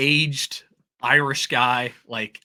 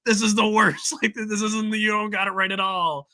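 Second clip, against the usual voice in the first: hammed-up Scottish complaint; lightly voiced grumpy Scotsman; mock Scottish rant; 9 semitones higher than usual. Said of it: "and be like".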